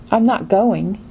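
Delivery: firm "not" to mean staying here. Shown as a demonstration. Teacher demonstrating the intonation meaning to learners, stress on "not". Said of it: "meaning I'm not going. I'm staying here".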